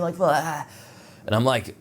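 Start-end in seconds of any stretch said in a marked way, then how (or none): 0.2-0.7 mock scream. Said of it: "he's, like, screaming".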